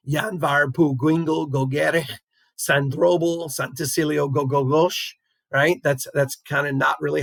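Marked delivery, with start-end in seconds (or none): 0.1-5.1 slow, clumsy stab at a long Welsh place name; butchered Welsh pronunciation. Shown as a demonstration. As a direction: stumble gamely through the Welsh syllables. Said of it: "I butcher it every time".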